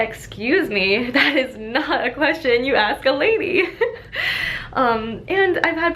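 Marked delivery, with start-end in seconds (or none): 0.0-3.6 mock offended. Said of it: "or I'll say". 3.7-4.7 light, airy giggle up high; high breathy laugh. Real, not acted. Laughing at her own joke.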